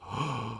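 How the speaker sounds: soft, sharp intake of breath; acted gasp. Mother's smile vanishes as the rope breaks, acted gasp. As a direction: gasp as the fall begins.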